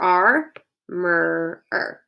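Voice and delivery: "R, mer, er" each sounded apart; lingering on the R sound; bossy R sounds. Shown as a demonstration. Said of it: "Hear a lot of bossy R's".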